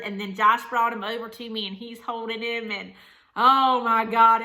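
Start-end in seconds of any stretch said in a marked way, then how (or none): 3.3-4.4 overwhelmed gasp. Real, not acted. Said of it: "overwhelmed recalling".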